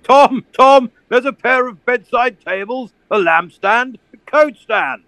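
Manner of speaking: high, eager listing of finds; thrilled bargain hunter; excited. Acted. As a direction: call out each find like treasure. Colonel excitedly spots furniture.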